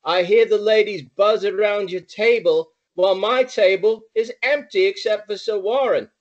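playful imitation English accent; mock British accent; put-on British accent. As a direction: flatter him in a borrowed British accent. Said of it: "trying to talk like you".

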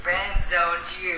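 drawn out, slow singsong tease; slow taunt. Real, not acted. Friend taunting a friend over rejection, slow and mocking. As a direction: stretch it out to rub it in.

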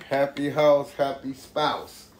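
the rhyme said in the wrong order, house first; slipped-up order, happy house then happy spouse; saying backwards. Real, not acted. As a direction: mix up the saying by accident. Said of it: "I said it backwards".

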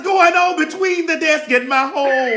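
mock shout of alarm, laughing; half-laughing what-is-happening yell; retold alarm. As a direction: holler it like you just got startled. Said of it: "I'm like".

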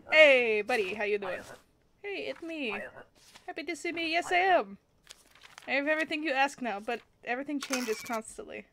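a touch of a chirpy hustler; cheery pushy traveller. Acted. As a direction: greet them like an old pal. Reads recurring traveller's lines in character.

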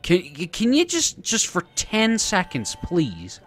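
high, loud desperate begging; high pleading. Real, not acted. Begging the enemy to leave.

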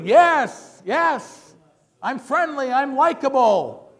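loud, high, crowd-pleasing enthusiasm; big beaming politician energy; showing energy. Shown as a demonstration. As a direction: sell your likability to a rally. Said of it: "you're just showing energy".

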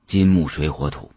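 usual speaking voice

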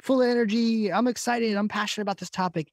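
high-pitched, passionate hype; mock pumped-up speaker, speeding up; full energy. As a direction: imitate yourself overexcited on stage. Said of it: "I was talking too fast".

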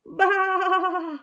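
high, loud lamb bleat; frightened lamb calling out high; lamb bleating loudly. Acted. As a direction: bleat out like a lost little lamb.

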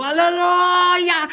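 high, drawn-out imitated shout of Aleluia; shouted hallelujah. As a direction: call out Aleluia slowly like the congregation. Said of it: "que eles gritavam".

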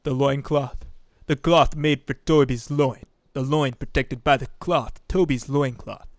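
lightly voiced cartoon henchman; a hint of a goofy henchman impression; Kronk. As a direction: lightly put on a cartoon sidekick voice. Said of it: "Crunk's voice".

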